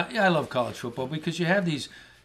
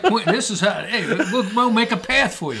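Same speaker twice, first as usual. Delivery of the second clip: laughing through it, higher and louder; giggly, higher and louder retelling; laughing quote; 7 semitones higher, 6 dB louder than usual. Retold or imitated. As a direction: crack up while you act out the guy.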